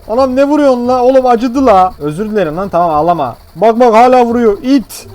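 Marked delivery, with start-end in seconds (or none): 0.1-1.9 patient's pained complaint. Pretend. Voicing hit patient complaining. 3.6-5.1 patient's shrill complaint. Pretend. Voicing patient being hit.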